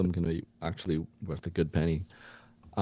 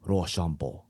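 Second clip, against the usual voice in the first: lightly voiced Japanese coach. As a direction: explain with a put-on Japanese accent. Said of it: "you to be the Japanese coach".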